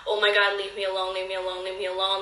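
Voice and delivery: desperate pleading. Retold or imitated. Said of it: "I just remember thinking".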